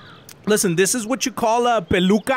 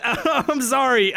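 laughing; 4 semitones higher, slower than usual. Real, not acted. Laughing apology.

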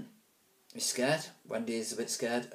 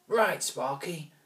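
slow, raised bossy call; bully order; 6 semitones higher, 4 dB louder, slower than usual. Acted. Alvis ordering his sidekick Sparky, bossy. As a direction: command the sidekick.

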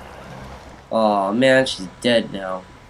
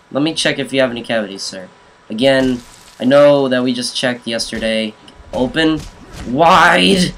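dentist. Pretend. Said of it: "I'm the best dentist ever".

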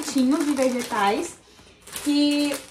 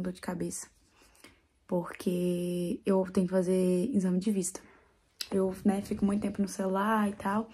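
talking quietly; 5 semitones lower, 7 dB quieter than usual. Real, not acted. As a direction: keep it soft and low. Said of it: "Tô falando baixo porque ele tá dormindo".

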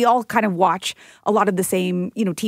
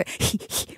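Lamaze-style puffing breaths; quick voiceless hee-hoo puffs; imitated breath work; 9 dB quieter than usual. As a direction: mimic short birthing-class breaths. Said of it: "when you said breathing, I thought, like, breath work".

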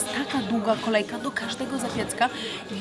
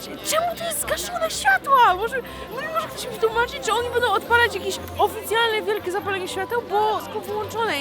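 high, puzzled questioning; surprised; 10 semitones higher than usual. Real, not acted. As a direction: ask in baffled surprise. Confused at lights off.

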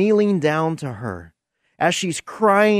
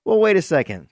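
normal talking voice

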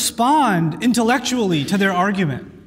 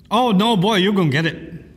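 demonstrated angry scolding; angry warning. Shown as a demonstration. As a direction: warn a boy he's in trouble. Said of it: "when you're angry or upset".

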